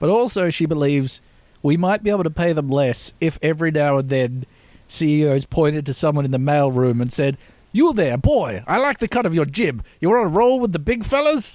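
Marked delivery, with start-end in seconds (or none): 7.7-11.6 put-on genteel pitched-up Southern drawl, courtly old gentleman voice. Speaker imagines a CEO praising a mailroom worker, sounding like Colonel Sanders. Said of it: "why does it sound like Colonel Sanders?".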